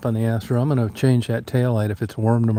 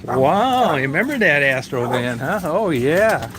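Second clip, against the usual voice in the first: pet talk; 4 semitones higher than usual. Real, not acted. To Daisy about remembering the van, high cooing pet talk. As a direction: praise the dog in a sing-song coo. Owner gushes at excited dog.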